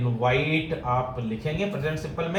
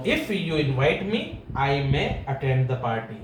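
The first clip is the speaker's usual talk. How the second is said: slow model sentence; 2 semitones lower, much slower than usual. Shown as a demonstration. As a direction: read out very slowly for students to copy. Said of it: "teacher reads model sentence".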